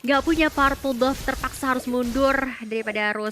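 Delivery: lively play-by-play commentary; esports caster. Acted. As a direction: call the match like a caster. Casts the match play-by-play. (komentator esports)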